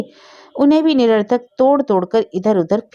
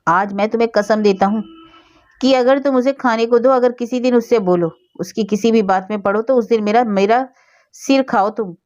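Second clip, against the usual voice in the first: stern oath; 4 semitones higher than usual. Acted. Husband swears his wife to a stern oath, harsh. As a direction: lay down the law sternly. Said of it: "कठोरता के साथ स्त्री से बोले".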